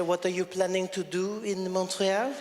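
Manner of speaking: put-on slow, sexy French-accented questioning; drawn-out seductive officer; flirty border agent. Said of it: "It was really sexy".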